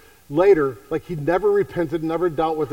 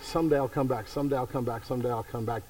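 each someday softer and lower until almost gone; fading repetition; 4 semitones lower, 8 dB quieter than usual. Acted. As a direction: let the promise die away to nothing. Repeated self-deception, fading away.

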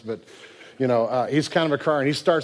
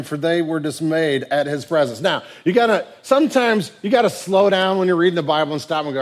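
ordinary talk, nothing marked

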